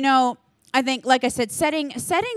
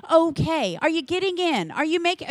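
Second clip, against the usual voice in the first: a touch higher, gently caring questions; caring check-in; 6 semitones higher than usual. Shown as a demonstration. Leader to a volunteer, asking how they're going in a lightly raised, caring voice. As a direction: ask kindly, like a leader who cares. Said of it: "Or just ask".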